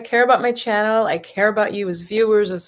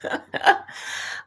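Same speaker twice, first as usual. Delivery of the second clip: nervous laughter; 5 dB quieter than usual. Real, not acted. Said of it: "I'm gonna be giggling a lot".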